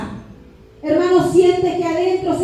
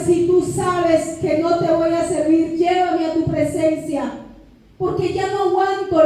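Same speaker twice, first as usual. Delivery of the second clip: retold tearful plea. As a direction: recall a desperate prayer with restrained distress. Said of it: "Yo recuerdo llorando esa madrugada".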